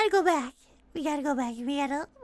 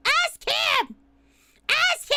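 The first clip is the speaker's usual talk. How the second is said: mock-exasperated outburst; 4 semitones higher, much slower than usual. Sudden outburst blaming the viewer.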